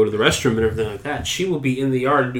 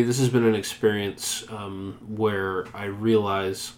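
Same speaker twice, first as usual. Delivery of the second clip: muffled behind a hand; hand over mouth; 4 semitones lower, 8 dB quieter, slower than usual. Real, not acted. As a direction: talk into your palm. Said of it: "Move your hand away from your mouth".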